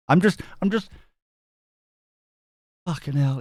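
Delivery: ordinary talk, nothing marked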